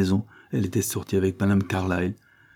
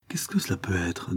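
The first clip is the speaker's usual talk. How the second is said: voix émue chuchotée; 6 dB quieter than usual. Acted. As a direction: question murmurée, bien plus douce. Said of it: "d'une voix émue et concentrée". (Isabelle, inquiète pour son fils, chuchote)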